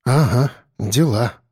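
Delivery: low, slow grumble; slow grumbled echo of her word. A narrator's reading. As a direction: mutter it back sourly. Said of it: "буркнул я".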